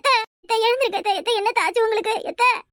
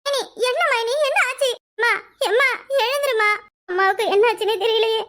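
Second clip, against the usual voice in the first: panicked cry; 4 semitones higher than usual. Acted. Wife finds mother fallen.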